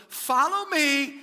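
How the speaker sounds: loud slow command "Follow me". Retold or imitated. Paul booming to the church, slow and loud. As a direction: boom it out as Paul. Paul's bold claim.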